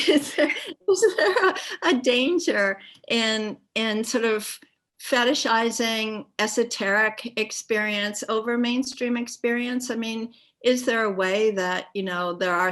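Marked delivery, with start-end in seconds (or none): 0.0-9.9 playfully provocative, raised and loud. Shown as a demonstration. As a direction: push the question to provoke them. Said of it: "I'll do my little provocative moment".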